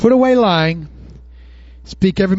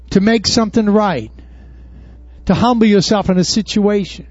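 ordinary talk

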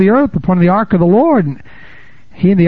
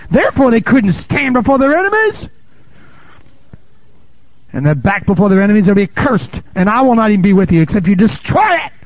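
fervent scripture reading; 5 semitones higher than usual. Acted. Continues reading God's words.

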